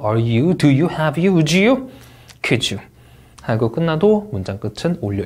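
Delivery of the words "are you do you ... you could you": 'Are you, do you, have you, would you' climbing on 'you'; rising question intonation. Shown as a demonstration. Teacher modelling question openers, rising tune. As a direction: lift each 'you' as a yes-no question. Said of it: "문장 끝나도 올려 읽는 거죠".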